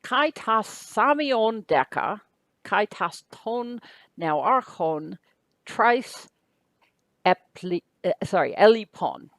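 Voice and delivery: slow, careful reading of the Greek phrases. Shown as a demonstration. Teacher reads another Greek sentence for the class, slow and deliberate. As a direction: read the Greek slowly, word by word. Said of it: "So here's another one".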